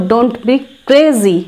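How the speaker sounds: slow, carefully spaced English; teacher's slow demo; slow model phrase. Shown as a demonstration. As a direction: spell it out slowly for learners. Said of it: "তো এটার জন্য বলবো".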